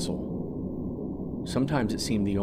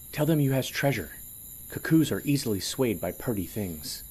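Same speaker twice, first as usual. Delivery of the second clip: higher, sly little schemer; sly sidekick voice; 3 semitones higher than usual. Acted. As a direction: whisper it up sly and eager. Piker's conspiratorial aside.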